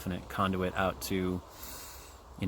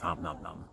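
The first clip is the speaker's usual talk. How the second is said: chewing noises; 3 dB quieter than usual. Shown as a demonstration. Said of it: "I'm chewing gum".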